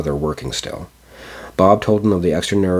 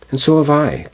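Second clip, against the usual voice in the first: much higher and louder, excited chime-in; eager exclamation; 10 semitones higher, 5 dB louder than usual. A narrator's reading. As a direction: jump in eagerly as a younger child. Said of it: "exclaimed another".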